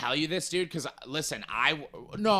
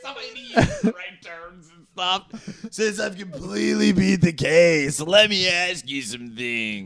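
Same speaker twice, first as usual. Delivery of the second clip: put-on high, loud drunken gloating; mock cocky drunk; 6 semitones higher, 3 dB louder than usual. A drunk gloats to the cop after beating the case. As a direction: gloat like you beat the case.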